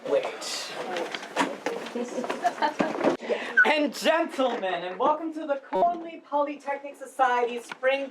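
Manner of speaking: formal, halting welcome speech; lightly pompous drama society director addressing the house; Chris. Acted. Drama society head welcomes audience to the spring production, formal speech. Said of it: "that was Chris's monologue from the play".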